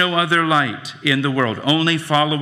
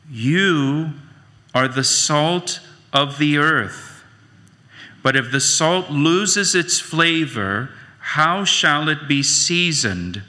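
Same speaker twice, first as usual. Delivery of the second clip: scripture reading. Acted. Pastor reading Matthew to the congregation, measured and solemn. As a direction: read the verses with weight. Reads scripture passage aloud.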